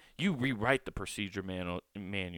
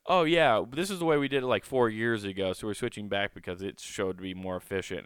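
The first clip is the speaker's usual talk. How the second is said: louder, breezy mock manager voice; 3 dB louder than usual. Mocking managers who justify switching back, louder and breezy. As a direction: brush it off like a chipper boss. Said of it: "everyone's like".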